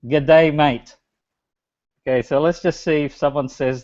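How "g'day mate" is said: mild Australian accent, a touch slower; light Australian accent; Aussie greeting. Shown as a demonstration. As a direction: repeat it the Aussie way for the audience. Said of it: "If you can spell that in Aussie accent".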